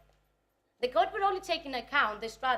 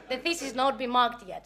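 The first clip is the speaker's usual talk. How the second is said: said through real laughter, a touch louder; laughing aside; 7 dB louder than usual. Real, not acted. Speaker joking to the audience that her thesis is unmarked, laughing. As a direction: giggle the words out as a joke.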